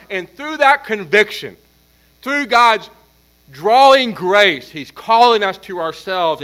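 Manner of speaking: building, emphatic sermon cadence; impassioned preaching. Real, not acted. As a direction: preach it with mounting force, punching key words. Preaches at full force.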